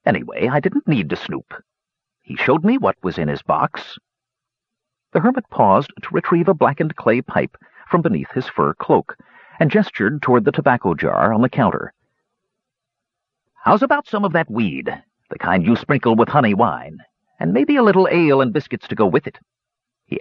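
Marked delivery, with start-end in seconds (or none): 0.0-4.0 put-on old dwarf hermit, storytelling. 13.6-19.4 lightly voiced old dwarf, higher pitched; old dwarf hermit, storytelling.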